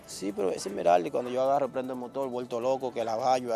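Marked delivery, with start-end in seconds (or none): 0.1-1.1 higher and louder, an excited yes; excited confirmation. Retold or imitated. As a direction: shout it back with sudden relief. Wife confirms it's the daughter.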